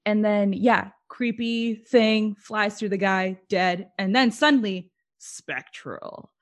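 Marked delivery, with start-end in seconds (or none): 5.2-6.3 hushed, eerie whisper; a whispered spooky aside. Retold or imitated. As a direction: breathe the word like a ghost. Describing a creepy movie moment.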